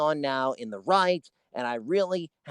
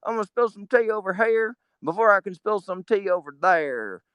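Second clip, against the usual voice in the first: much higher, put-on comic voice for a president; George W. Bush impression; 9 semitones higher, 3 dB louder than usual. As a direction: ham it up as a goofy president, fast at first. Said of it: "George W. Bush kind of thing".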